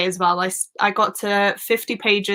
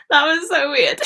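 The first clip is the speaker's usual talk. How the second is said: embarrassed laugh; 6 semitones higher than usual. Real, not acted. Laughing after awkward Welsh attempt.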